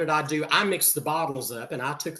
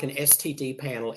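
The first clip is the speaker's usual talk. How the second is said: incredulous echo; 4 dB quieter than usual. Retold or imitated. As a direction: repeat "S T D panel" in disbelief. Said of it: "I bit my tongue so hard".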